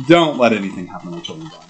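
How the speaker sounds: imitating a rushed plea to God. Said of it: "to say to God".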